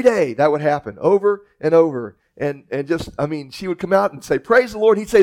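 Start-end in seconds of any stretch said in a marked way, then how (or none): 4.4-5.0 called-out praise. Acted. Old lady calling from porch.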